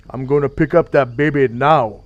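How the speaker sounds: mock thug announcing himself, punchy; thug babysitter. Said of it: "that character is what I based Anbu on".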